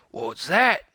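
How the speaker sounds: pirate captain startled by a shriek; startled shout. A narrator's reading. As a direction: snap to attention. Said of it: "he shouted".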